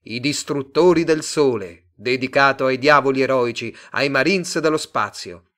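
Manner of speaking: loud heroic movie announcement; big, projected trailer-style billing; shouting poster. A narrator's reading. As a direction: proclaim it like a war-film poster. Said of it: "Il manifesto gridava".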